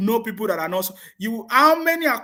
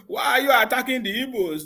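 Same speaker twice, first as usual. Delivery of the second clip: mock their wounded complaint, a touch raised; mock victim whine; 5 semitones higher than usual. Mocking critics who play the victim card, with a mild whiny mock voice. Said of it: "they say".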